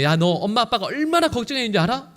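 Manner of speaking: high, exasperated parental scolding. Retold or imitated. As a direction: snap at the lost son like a worried mother. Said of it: "보통 부모들 같으면". (화난 부모의 꾸짖음)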